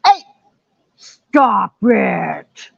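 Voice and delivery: growled demon scolding; mock-demonic shout, drawn out. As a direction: scold the dog in a playful demon voice. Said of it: "I do the demon voice".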